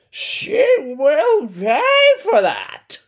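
very high, slow put-on blizzard voice; roaring blizzards. Angry blizzards vowing revenge, a high slow threat. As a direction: threaten her in a drawn-out shriek. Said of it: "they roared".

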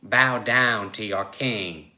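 slow, drawn-out command; daring. Acted. Tiger Joe orders Logue to submit, daring. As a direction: order it slowly, as a dare. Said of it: "Joe dared".

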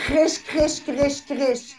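crackly static noise made with the mouth; imitating static. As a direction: mimic a bad mic crackling. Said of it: "Is that a good imitation of what's going on?".

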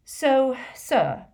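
strained courtesy; forced politeness. A narrator's reading. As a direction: try to sound polite while annoyed. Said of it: "in what he hoped was a polite, calm voice".

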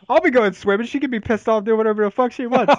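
defiant boast. Real, not acted.

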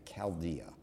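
Chaldea with a K at the start, kal-DEE-a; hard K. Shown as a demonstration. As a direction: model Chaldea with Ch said as K. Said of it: "which is pronounced K".

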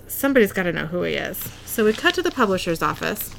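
spitting while talking; accidental spray of spit mid-sentence; spit take. Real, not acted. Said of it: "I just spit all over myself".

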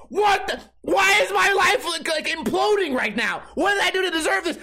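high, shouting in disbelief; freaking out, voice way up; panicked yelling. Retold or imitated. Retold freak-out after calling 911.

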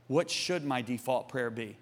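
low, soft, slow question; very cautious. Retold or imitated. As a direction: ask carefully, almost afraid of the answer. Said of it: "I very cautiously said".

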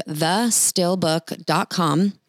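the still book dot com spelled out slowly, each word separate; slow, clear domain name. Shown as a demonstration. Host tells viewers the domain, slowly and clearly. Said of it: "You're gonna go to this domain".

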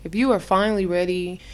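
slow, drawn-out infomercial pitch. Acted. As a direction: sell it like a late-night ad. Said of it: "I'm gonna make it sound like an affirm-, uh, uh, infomercial shit".

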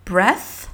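breath with a short e and breathy th; a quick clipped breath; English pronunciation. Shown as a demonstration. Teacher modelling breath for learners. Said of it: "Quand tu vas prononcer breath".

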